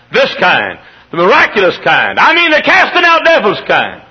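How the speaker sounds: rising to a high, loud shout; fiery pulpit crescendo; preaching at full force. Real, not acted. Preaching climax.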